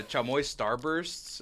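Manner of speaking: Chamoy Starbursts drawn out slowly in a cholo accent. Real, not acted. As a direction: slip into a cholo accent, slow and low-key. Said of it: "Why did I say it like a cholo?".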